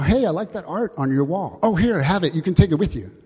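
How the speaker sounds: light, high-pitched enthusiasm; eager impulsive giver. Acted. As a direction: play an over-eager gift giver. Acted exchange with an impulsive giver.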